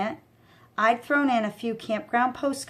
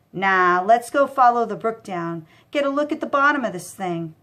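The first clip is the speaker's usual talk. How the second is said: louder, pushy thug voice; loud goon; 4 dB louder than usual. Acted. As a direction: bark it like a bossy thug. Goon arguing.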